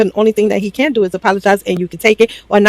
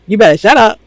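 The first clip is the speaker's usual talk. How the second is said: mock mom scolding; 3 semitones higher, 4 dB louder than usual.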